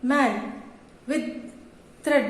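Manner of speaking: each word said in one go; isolated words, each a single unbroken beat; one-syllable words. Shown as a demonstration. Teacher demonstrating one-syllable words, each said in one piece. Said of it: "एक ही बार में पढ़ रहे हैं".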